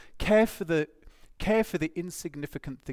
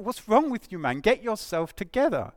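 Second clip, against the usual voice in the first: louder, higher mock telling-off; mock exasperation; 4 semitones higher, 5 dB louder than usual. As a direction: give Jonah a mildly exasperated ticking-off. Imagined telling-off of angry Jonah.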